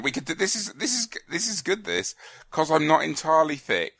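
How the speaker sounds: giggling. Real, not acted. Laughing over typed comment.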